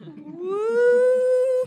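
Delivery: high whoop; woo. Real, not acted. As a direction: whoop at your own boast. Mock boast reaction.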